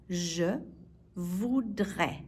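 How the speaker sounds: "Je", pause, then "voudrais"; word by word. Shown as a demonstration. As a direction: split Je voudrais slowly for learners. Teacher breaks phrase up for learners.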